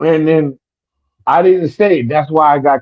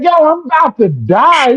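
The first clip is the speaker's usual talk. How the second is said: high-pitched mimicked dad protest; exasperated father imitation, very high; dying father; 11 semitones higher, 3 dB louder than usual. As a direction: plead it as Dad, voice pushed way up. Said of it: "He said".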